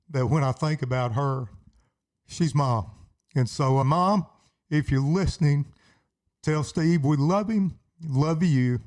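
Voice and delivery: tearful, heartfelt thanks with halting pauses; real, choked-up gratitude; emotional. Real, not acted. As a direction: fight back tears as you thank them. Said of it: "get a little emotional".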